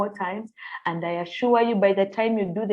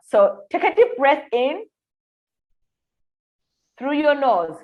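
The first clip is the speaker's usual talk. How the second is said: guided breathing; 3 semitones higher than usual. Shown as a demonstration. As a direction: lead the breath, breathe along. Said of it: "let's do this together".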